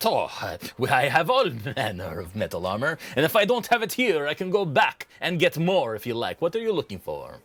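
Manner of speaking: lightly voiced, obliging shopkeeper; a hint of boastful trader; eager merchant. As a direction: assure a customer with a salesman's zeal. Game master voices merchant.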